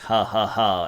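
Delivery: low, spelt-out laugh; villainous fake laugh. Oberon enchanting sleeping Titania, mock gloating. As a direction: laugh in three low beats. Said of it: "and goes".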